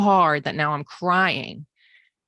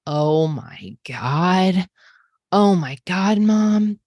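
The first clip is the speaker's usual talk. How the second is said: higher and louder, overjoyed; overjoyed disbelief; 3 semitones higher, 5 dB louder, much slower than usual. Retold or imitated. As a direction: gush like a teen who can't believe it. Daughter learns the car is hers.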